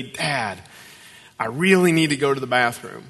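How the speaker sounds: "really" leaned on, urgent little plea; a kid's request with "really" stressed. Retold or imitated. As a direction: lean hard on "really". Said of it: "Emphasis on the word really".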